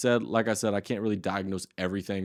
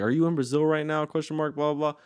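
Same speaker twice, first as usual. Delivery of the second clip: lightly voiced chatty girl, a little higher; model persona; 5 semitones higher than usual. Shown as a demonstration. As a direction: ask it breezily, like the model herself. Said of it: "be like".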